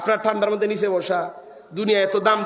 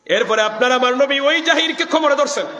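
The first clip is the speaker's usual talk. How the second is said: usual speaking voice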